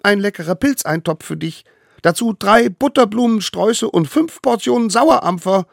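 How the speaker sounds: high, eager little voice; tiny eager hunter. Acted. Little hunter brings food to the mammoth, high and eager. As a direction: play the smallest one, proud and keen.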